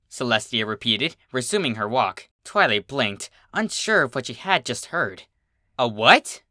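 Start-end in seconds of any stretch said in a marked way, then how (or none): 5.8-6.4 louder, insistent question. Acted. Twilight repeats her question to Celestia, louder and insistent. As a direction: ask again, pushing harder. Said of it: "this time with a louder tone".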